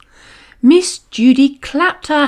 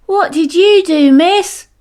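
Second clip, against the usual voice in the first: put-on higher, louder kids asking together; class chorus; 8 semitones higher, 4 dB louder than usual. A narrator's reading. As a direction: ask all at once like curious children. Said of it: "chorused the class".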